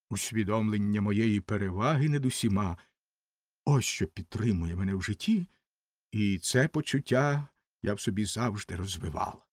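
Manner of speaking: lightly voiced haughty rocket, low-pitched; mildly superior, settled and low; conceited Rocket.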